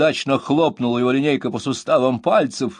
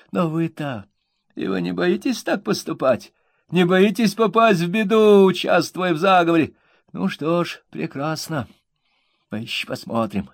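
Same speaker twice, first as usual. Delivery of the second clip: whining threat; 8 semitones higher than usual. A narrator's reading. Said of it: "грубым и вместе с тем каким-то хнычущим тоном".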